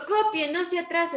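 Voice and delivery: teacher's order. Shown as a demonstration. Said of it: "Y si digo".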